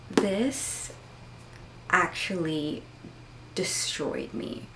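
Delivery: slow breathy whisper. Real, not acted. Vlogger telling viewers the book destroyed her, whispered. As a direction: hush it out slowly.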